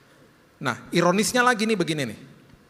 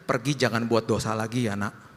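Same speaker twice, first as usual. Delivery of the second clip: gentle; 6 semitones lower than usual. Retold or imitated. Jesus to the adulterous woman.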